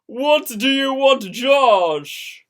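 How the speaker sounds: loud, snapping at him; angry. Acted. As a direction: bite back in anger. Angry girlfriend confronting him.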